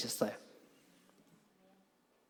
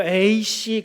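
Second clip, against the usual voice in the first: louder, drawn-out grumble of annoyance; hammed-up huff, stretched out; mock irritation; 3 semitones higher, 5 dB louder, much slower than usual. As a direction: act out an exasperated husband's curse. Husband storming off from the table.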